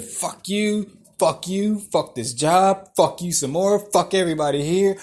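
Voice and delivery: loud, punched-out string of curses; hammed-up angry rant, hitting each curse; retold tirade. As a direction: re-enact a gleeful cussing rampage. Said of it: "went on a fuck you tirade".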